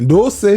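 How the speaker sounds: Dulce said as "dohss"; misread "does". Retold or imitated. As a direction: say Dulce to rhyme with gross, like a question. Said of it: "Sometimes I'll be like".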